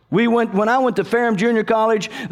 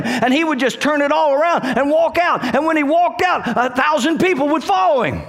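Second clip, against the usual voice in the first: raised-pitch, driving preacher delivery; preaching at full force; 5 semitones higher than usual. Real, not acted. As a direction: preach it with rising fervour.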